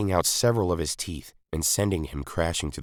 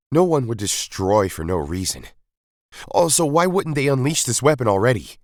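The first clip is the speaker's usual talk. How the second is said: higher, louder doubting challenge; lightly voiced leader pushing back; rebel leader, sceptical; 8 semitones higher, 5 dB louder than usual. A narrator's reading. The rebel leader challenges the Doctor's warning, sceptical.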